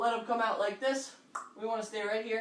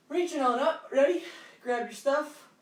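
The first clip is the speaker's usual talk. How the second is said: higher and louder, energetic call; pumped-up cue; 5 semitones higher, 5 dB louder than usual. Real, not acted. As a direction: fire up the class. Instructor pumping up the class.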